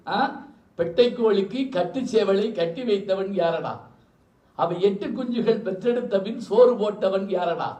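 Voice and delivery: slow the lyric down, line by line; slow careful recital. Shown as a demonstration. Speaker slows the film song lyric for the audience, slow. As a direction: spell out the old verse slowly so they follow. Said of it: "Tamil பாட்டு தான், பயப்படாதீங்க".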